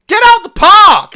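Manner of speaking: high, loud shout through laughter; laughing shout. Real, not acted. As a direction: yell it at them, cracking up. Yelling at people in the video.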